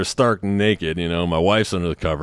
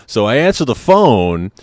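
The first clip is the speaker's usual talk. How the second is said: normal talking voice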